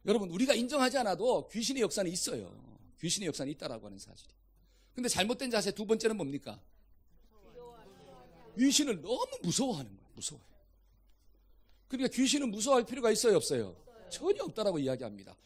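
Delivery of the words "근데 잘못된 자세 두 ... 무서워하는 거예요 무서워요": ordinary talk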